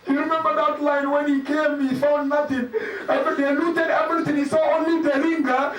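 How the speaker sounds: urgent, plaintive telling; mournful recitation. Acted. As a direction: press through the tragedy in a lamenting tone. Laments the looted ring.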